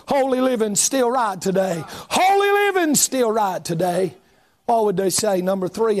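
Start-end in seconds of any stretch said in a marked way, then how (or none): 1.9-4.2 the refrain thrown out at full voice; preacher belting the refrain back at the congregation; shouted. Shown as a demonstration. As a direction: lift the same line into a shout.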